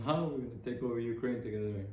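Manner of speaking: clumsy attempt at a Russian accent; vague, unconvincing Russian-ish accent; bad Russian accent. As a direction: badly fake a Russian Putin. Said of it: "I'm not good at accents".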